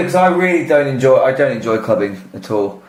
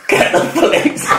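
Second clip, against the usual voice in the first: breathy repeat; 13 semitones higher than usual. Pretend.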